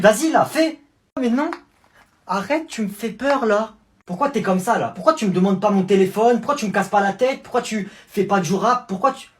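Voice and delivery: frightened loud rapid-fire questions; panicky pleading. Acted. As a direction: panic at the strange kindness. Scared by the sweet cousin.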